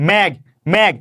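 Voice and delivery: মেঘ said slowly and clearly, the final ঘ sounded fully; clear demonstration. Shown as a demonstration. Teacher showing students the closed final consonant in মেঘ. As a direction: say মেঘ carefully so students hear the closing ঘ. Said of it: "শেষে কি স্বর পাই না ব্যঞ্জন পাই".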